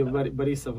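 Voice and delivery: "Borisov" said the Russian way; Russian-style "Borisov", not anglicized; Russian pronunciation. Shown as a demonstration. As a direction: give "Borisov" a Russian reduced first vowel, like "Ba". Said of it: "would be Russian version".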